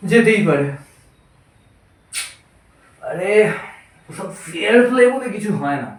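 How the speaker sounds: halting, long-paused tipsy monologue; drunk playwright. Acted. Drunk playwright arguing with himself about war and kings, lightly slurred-drunk act. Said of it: "নাট্যকারের কথোপকথন মদ্যপ অবস্থায়".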